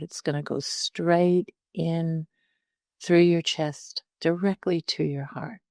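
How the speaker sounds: calm meditation guide with long pauses; unhurried, conversational meditation instruction; guided meditation. Real, not acted. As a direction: talk listeners gently through settling in, leaving space between phrases.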